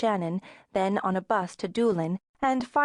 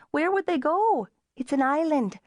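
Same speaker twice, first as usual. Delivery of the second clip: Sharon's voice; 7 semitones higher than usual. A narrator's reading. Sharon laughing it off.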